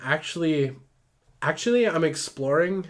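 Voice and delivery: lightly put-on Valley Girl; Valley Girl lilt with rising ends. Ruth explains herself to Benny, light Valley Girl voice. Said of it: "Oh, Valley Girl voice".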